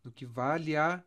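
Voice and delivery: "vale a" run together as va-lia; "vale a" glided as two syllables; joined vowels. Shown as a demonstration. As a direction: merge the end of "vale" into "a". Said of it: "eu junto as duas aqui".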